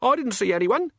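very high, frightened protest; alarmed, high-pitched henchman; panicked denial. Acted. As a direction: squeak out that you're innocent. Chicken Wire in panic.

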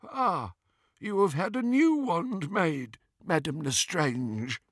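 high goblin teller, slowing at the end. A narrator's reading. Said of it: "and then said".

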